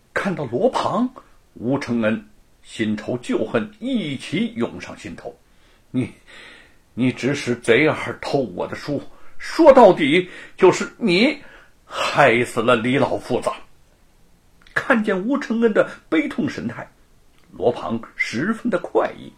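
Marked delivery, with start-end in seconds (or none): 5.9-13.5 halting, rising accusation; bitter accusation. Acted. Wu accuses Luo of Li's death, mildly angry. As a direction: stammer then blame him.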